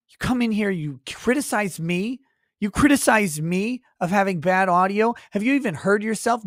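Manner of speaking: roasting a commenter on request, mock anger; mock rant. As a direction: play-act outrage, pitch climbing. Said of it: "Go off on volume people like Scott".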